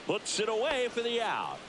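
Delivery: excited call. Real, not acted. Commentator calls a fly-ball out, excited call. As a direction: lift the voice as the play is completed.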